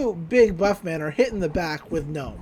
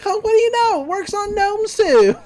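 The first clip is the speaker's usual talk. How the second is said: very high, loud cartoon voice; hammed-up, high-pitched amazement; mock surprise; 8 dB louder than usual. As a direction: squeal it like a silly little creature. Acts gnomes' surprise at whistle.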